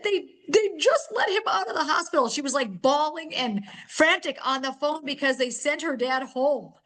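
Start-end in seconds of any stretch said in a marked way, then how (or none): 0.0-2.3 giddy relief. Retold or imitated. Retelling the joyful call.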